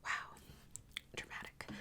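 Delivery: unvoiced, barely there; whispered aside. Real, not acted. Reader whispering a comment on the reading. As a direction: mouth the word to yourself. Aside after long pause.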